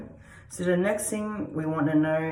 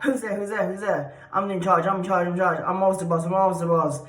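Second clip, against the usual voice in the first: bossy dog voice; 2 semitones higher, faster than usual. Pretend. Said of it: "they bark like that".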